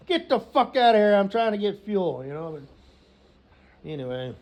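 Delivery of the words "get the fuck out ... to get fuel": irritated shout. Acted. Mimics yelling at man blocking fuel.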